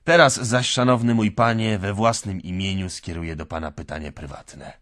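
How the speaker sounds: lightly voiced drunk clerk, loud start; a tipsy old clerk making his point; drunken Marmeladov. (lekko zagrany pijany urzędnik)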